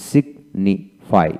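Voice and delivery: "সিগনিফাই" slowly, with a clear hard g before the n; slow model of "সিগনিফাই", g fully sounded. Shown as a demonstration. Teacher models a sounded G for learners, slow, clear "সিগনিফাই" with hard g. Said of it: "জি এর উচ্চারণ হয়".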